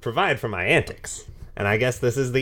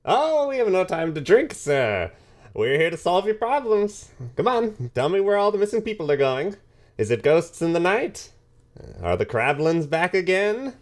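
higher, eager hero voice pressing for answers; eager adventurer; 6 semitones higher than usual. Acted. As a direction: push the barman like a keen young hero. Adventurer questions the bartender eagerly.

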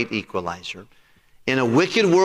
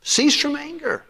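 God's command; 11 semitones higher than usual. Retold or imitated. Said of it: "He said, "Look, John".

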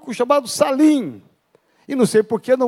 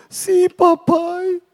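son's voice; 7 semitones higher, much slower than usual. Acted. Son answers his dying father.

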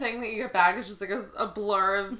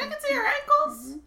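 prudish chicken voice; 6 dB louder than usual. Pretend.

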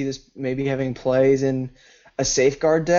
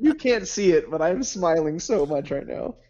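smiling voice; 2 semitones higher than usual. Real, not acted. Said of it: "I'm smiling ear to ear".

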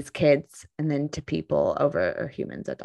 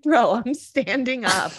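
mock exasperated; 7 semitones higher than usual. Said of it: "I'm like".

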